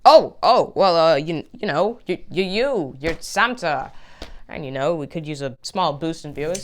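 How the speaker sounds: flustered stammer. Acted. Host flustered by Santa.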